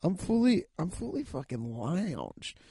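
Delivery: slow, soft, yawning words. Real, not acted. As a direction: drawl it mid-yawn. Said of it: "I can't stop yawning".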